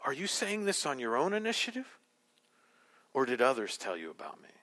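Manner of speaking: soft question, settling low on the second half; gracious, quiet questioning; Jesus, gracious inquiry. Acted. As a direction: ask gently, without accusing. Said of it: "Jesus' gracious inquiry".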